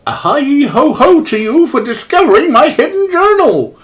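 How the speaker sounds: put-on jolly, overdone Canadian accent; bad Canadian accent. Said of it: "I'm trying to do a very bad Canadian accent".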